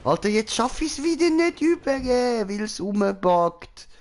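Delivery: high frantic whine; panicking gamer. Real, not acted. Stuck in game, frustrated.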